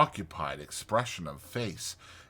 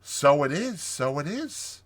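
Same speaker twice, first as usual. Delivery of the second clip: hearty agreement, pitched up; 6 semitones higher, 3 dB louder than usual. A narrator's reading. Mole agrees with Rat, hearty. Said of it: "said the Mole with great heartiness".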